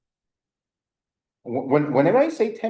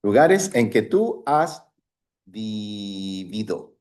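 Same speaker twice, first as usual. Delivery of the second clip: slow modeling; 2 semitones lower than usual. Shown as a demonstration. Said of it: "Por ejemplo".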